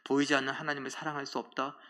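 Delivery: mild, composed acted admonition; understated, gentlemanly reproof; polite restraint. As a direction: speak God's words in a measured way. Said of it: "이건 점잖게 얘기하신 거죠".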